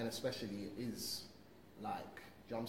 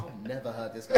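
laughing; 15 dB louder than usual. Real, not acted. Laughing disbelief at friend.

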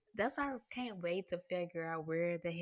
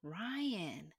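whisper. Retold or imitated. Praising the director.

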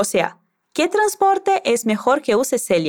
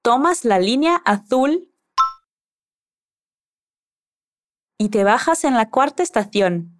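Castilian accent, z and c as th in "azul" and "estación". Shown as a demonstration. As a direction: read it like a speaker from Spain, with the th. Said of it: "con el acento de Luis si quieres".

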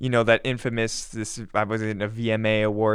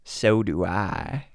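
pop singer's voice; 5 semitones lower, much slower than usual. Pretend. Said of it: "Do it in a Miley Cyrus voice".

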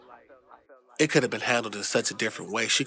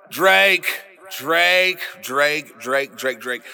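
calling out; 4 dB louder, much slower than usual. Real, not acted. Calling out to Drake.

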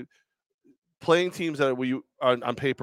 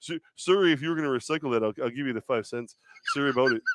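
put-on apologetic, super-polite Canadian accent; sheepish Canadian saying sorry with rounded vowels; gentle mock-Canadian apology; Canadian impression. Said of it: "I did the Canadian accent with the boot".

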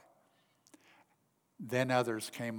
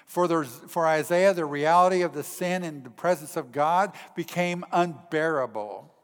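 raised, louder preacher's delivery; forceful preaching; 5 semitones higher, 9 dB louder than usual. Real, not acted. Preacher to congregation on Isaiah's sin before God, forceful preaching.

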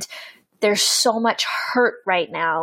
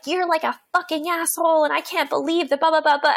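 much higher, hammed-up furious email rant; mock angry rant; 8 semitones higher than usual. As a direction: vent like an angry email reply. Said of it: "write out, like, all of the anger".

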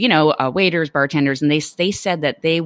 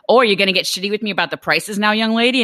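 mock-testy, higher-pitched bartender; pissy bartender; 5 semitones higher than usual. Bartender challenging a customer over prices, pissy. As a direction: play the bartender getting huffy. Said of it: "bartender pissy".

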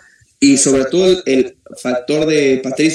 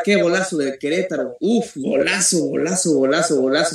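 breakneck goal commentary; 2 semitones higher than usual. Real, not acted. Goal cry from a soccer match.

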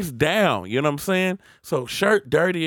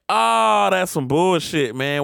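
loud, high and drawn out; mock-outraged complaint; indignant protest; 6 semitones higher, 6 dB louder, slower than usual. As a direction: push back loudly, stretching it out. Retold protest to police.

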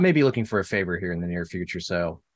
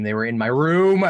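mock scream; 4 semitones higher, 5 dB louder than usual.

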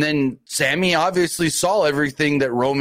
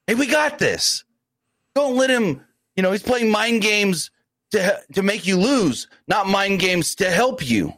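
reassuring brother, imitated; 5 semitones higher than usual. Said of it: "He should be telling his brother".

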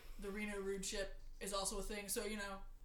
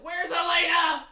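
slow, louder yell; loud demand; 6 semitones higher, 15 dB louder, slower than usual. Retold or imitated. Fan demanding the Turk from the game makers, loud and slow. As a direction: bellow the question.

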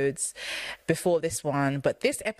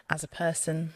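whisper; 4 dB quieter than usual. Real, not acted. Praising cohost who left.

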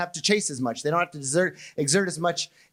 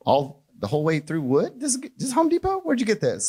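lightly voiced chatty firefighter gushing over the house; mock polite firefighter. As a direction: firefighter making mock pleasantries with a homeowner. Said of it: "I'm pretty sure they don't say".

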